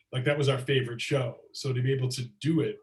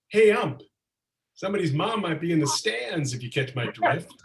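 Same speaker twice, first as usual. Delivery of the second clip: calling out; 5 semitones higher than usual. Retold or imitated. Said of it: "and he's like".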